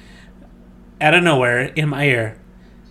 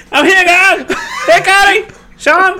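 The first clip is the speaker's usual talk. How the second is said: laughing cheer; 12 semitones higher, slower than usual. Pretend. Acting arriving in heaven.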